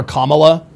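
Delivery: "Kamala" stressed on the first syllable, KAH-muh-luh; "Kamala" with the opening syllable punched. Shown as a demonstration. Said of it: "that's the way you pronounce".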